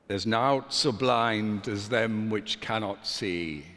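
light attempt at a Yorkshire accent. Shown as a demonstration. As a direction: try a northern Yorkshire accent. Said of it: "in a strong Yorkshire accent, which I cannot do, but I will try".

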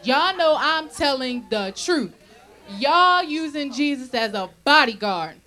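loud, laughing tease at the crowd; laughing jab. Real, not acted. Preacher teasing the congregation, loud and laughing. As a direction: call them out with a laugh.

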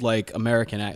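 put-on plain old American accent. Shown as a demonstration. Guest shows hosts a plain old American sound, American accent. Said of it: "I like that, how that toned in".

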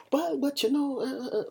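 high squeaky mock stammer of excuses. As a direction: parody mom fumbling for an excuse. Mimicking mother's excuses.

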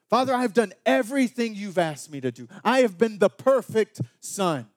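loud, bitter protest to the father; resentful older son confronting his father; angry complaint. Retold or imitated. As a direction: push back hard, aggrieved and loud.

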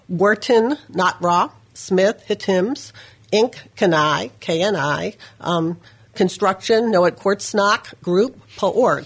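Hitims, Kanai, Kortsnock, Paorg read as reversed names; backwards speech. Shown as a demonstration. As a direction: reverse each name syllable by syllable. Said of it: "how you talk backwards".

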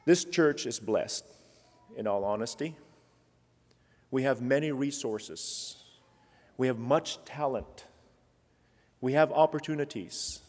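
soft, sincere preaching close; quiet sincere close. Real, not acted. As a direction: bring it down gently and sincerely. Softer closing.

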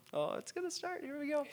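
choked up, voice leaping high; real tearing up. Real, not acted. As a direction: fight back tears, pitched high. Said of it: "forgive me if I tear up".

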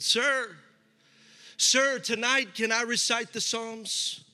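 a hint of a boy calling from the back; lightly voiced young boy. Young boy asks the actor to recite, lightly voiced. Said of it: "there was a young boy".

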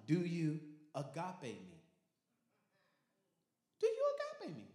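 high, searching plea; Jesus asking. Acted. Jesus pressing Peter for love, pleading high.

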